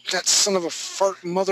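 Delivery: mock curse-word-free grumbling; mock frustration. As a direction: vent like a fed-up student, half joking. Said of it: "I can hear the frustration in your".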